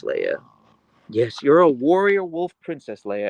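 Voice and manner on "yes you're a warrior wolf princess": higher fond coo; pet talk. Acted. Streamer praising her dog as a princess, higher coo. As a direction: flatter the dog in a lifted voice.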